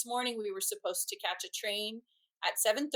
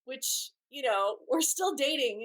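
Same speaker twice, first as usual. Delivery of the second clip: ordinary delivery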